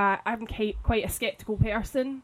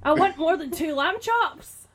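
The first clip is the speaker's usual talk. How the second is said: aggrieved date; 6 semitones higher than usual. Retold or imitated. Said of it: "And he was like".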